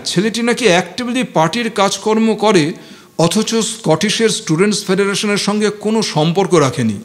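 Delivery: a light hint of chewing each word, pressing then letting it go; lightly voiced showy student pushing the words; affected student. Sudip passes on the rumour, words lightly chewed. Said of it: "চিবিয়ে চিবিয়ে শব্দগুলোর ওপর একটু জোর দিয়ে".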